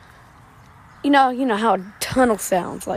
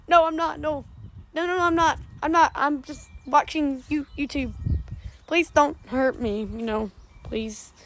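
scared pleading; 4 semitones higher, 4 dB quieter than usual. Acted. Caught, begging the kidnapper.

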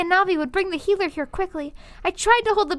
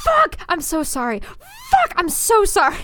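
imitating mom in labour; 3 semitones higher, slower than usual. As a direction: swear then apologise to the nurses. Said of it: "kept swearing at the top of her lungs and then kept apologizing".

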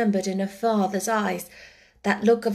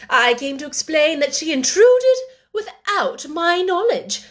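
louder, stiffly polite and stern; sternly dignified; 4 semitones higher, 5 dB louder than usual. Acted. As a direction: stay rigidly polite, looking down on them. Miss Minchin taken aback.

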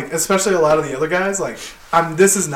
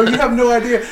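raised-pitch retort; retold going off; 6 semitones higher than usual. Worker going off on his boss, high retort. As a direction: go off on him, pitched up. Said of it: "start going off on him".

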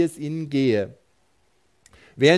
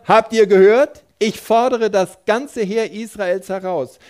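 loud, much higher shouted challenge; Goliath screaming; 6 semitones higher, 6 dB louder than usual. A narrator's reading. Goliath defying the whole army of Israel, screamed challenge. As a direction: roar it out like a giant defying an army. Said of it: "Dann schrie er".

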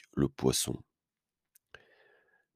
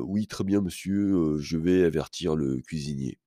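voix de serveur; 3 semitones higher than usual. Retold or imitated. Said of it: "avec sa voix de serveur".

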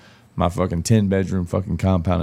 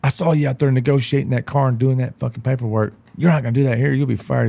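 stern manager; 6 semitones higher than usual. Retold or imitated. Deli manager warning him off car deals, stern. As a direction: threaten like a petty manager. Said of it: "that manager at McAllister said".

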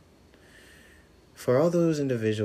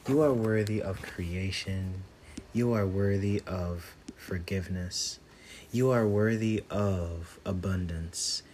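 affirmation meditation. Acted. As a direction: lay each affirmation down gently.

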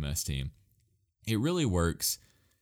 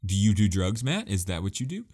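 lightly raised yell, pitched up at first; mock yelling; 4 dB louder than usual. Imagined purists yelling at the host about his pick, mock yelling. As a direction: imitate an outraged listener yelling. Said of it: "are probably yelling, saying".

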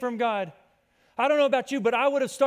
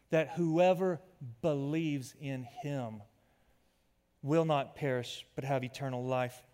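soft personal reflection; 7 semitones lower, 5 dB quieter than usual. Real, not acted. Pastor shares his own revelation with the congregation, hushed. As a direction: speak it like a private realization. Intimate personal testimony, verse recited.

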